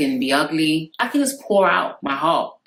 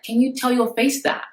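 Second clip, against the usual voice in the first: sassy retort; 9 semitones higher than usual. Retold or imitated. Mocking retort to flat speaker.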